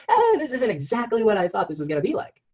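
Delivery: high, put-on voice of letdown; disappointed whine. Coach to chat, mimicking let-down entrepreneur high. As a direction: whine it like a deflated business owner. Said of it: "and now I'm like".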